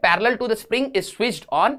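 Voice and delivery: very slow, word-by-word reading; slow dictation. Real, not acted. Teacher reading a physics question to students, slow dictation. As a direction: read it out slowly so they can copy it down. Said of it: "reading question aloud slowly".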